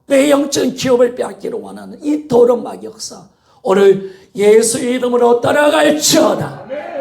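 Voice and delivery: loud, high-pitched revival preaching; fervent preaching. Acted. Preacher rallying the congregation against the devil, fervent preaching. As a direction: drive each phrase out with full force.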